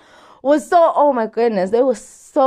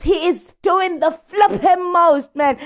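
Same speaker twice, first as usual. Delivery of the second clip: exasperated outburst; 4 semitones higher than usual. Real, not acted. Exasperated gossip rant.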